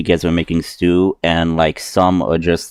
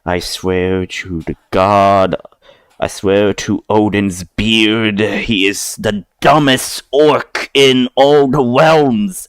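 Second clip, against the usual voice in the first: slow, exasperated oath under the breath; a fed-up warrior swearing by Odin's beard; grumbling Goliath; slower than usual. Acted. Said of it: "And it's like".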